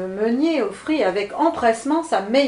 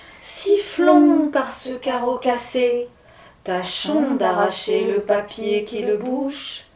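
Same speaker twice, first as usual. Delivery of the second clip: slow, louder wind spirit chant; gusting windy whisper; 4 dB louder, slower than usual. Acted. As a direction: stretch the words like a gust. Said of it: "voix des esprits du vent chuchoter".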